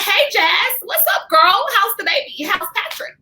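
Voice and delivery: high, bubbly fake-nice greeting; fake-friendly greeting. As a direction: greet her all sugary sweet, masking anger. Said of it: "So I'm like".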